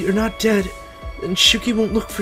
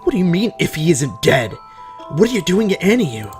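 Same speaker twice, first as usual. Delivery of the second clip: raised, higher-pitched angry demand; angry questioning, pitched up; lashing out; 8 semitones higher, 5 dB louder than usual. Acted. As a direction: lash out in a loud, indignant burst. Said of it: "lashes out".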